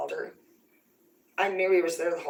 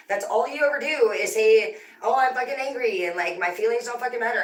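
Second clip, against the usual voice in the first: high, louder, exasperated rant; retold angry protest; 5 semitones higher, 4 dB louder than usual. Daughter arguing back at mom, retold in heated exasperation. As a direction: act out throwing the accusation back.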